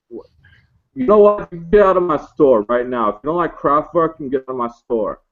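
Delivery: mock-angry stoner clerk. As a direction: kick them out of the shop. Clerk throws them out.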